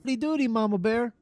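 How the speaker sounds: high, playful sing-song hello; sing-song greeting. Acted.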